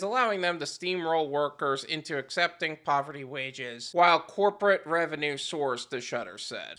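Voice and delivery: even, low-key reading of a report; article read-aloud. Real, not acted. Host quoting a news article to viewers, measured reading. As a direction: read it out, sinking low at the end.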